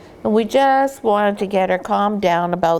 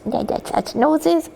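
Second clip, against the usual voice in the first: put-on baby talk; 6 semitones higher than usual. Shown as a demonstration. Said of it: "I won't".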